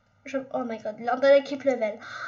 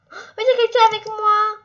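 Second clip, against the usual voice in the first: surprised; 6 semitones higher, 8 dB louder, faster than usual. Real, not acted. Sudden company in the game.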